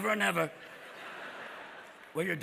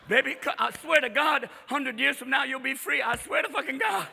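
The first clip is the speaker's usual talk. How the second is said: pleading promise; 6 semitones higher than usual. Acted. Jefferson pleading with Sally Hemings.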